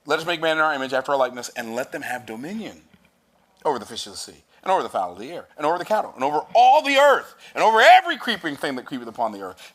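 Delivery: preaching crescendo. Acted. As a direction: preach it, rising to a shout. Preaching the verse, building.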